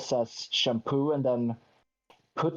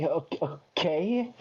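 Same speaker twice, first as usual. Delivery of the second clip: hesitant okay; 3 semitones higher than usual. Retold or imitated. Customer during the head massage, hesitant and unsure. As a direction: agree haltingly, voice lifting at the end. Acts out own uneasy reply.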